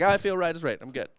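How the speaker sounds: lightly faked Scottish lilt; failed Scottish accent. Retelling the servant's boast, weak Scottish accent. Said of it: "I can't do Scottish".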